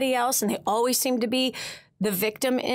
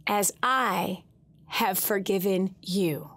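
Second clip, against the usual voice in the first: slow gentle divine voice; 4 semitones lower, slower than usual. Retold or imitated. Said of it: "He also said to me".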